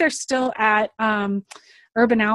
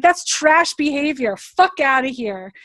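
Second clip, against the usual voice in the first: slow, raised, emphatic dismissal; dismissive retort; 4 semitones higher, 3 dB louder than usual. Acted. Telling off someone bringing trash, emphatically dismissive. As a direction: draw it out and wave them off. Acted retort to bad behaviour.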